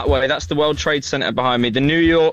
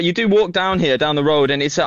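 normal talking voice

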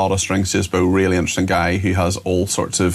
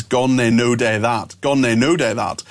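"no" leaned on and drawn out; stress on "no". Shown as a demonstration. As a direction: put the emphasis on the word "no". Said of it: "emphasis on the, on the word no".

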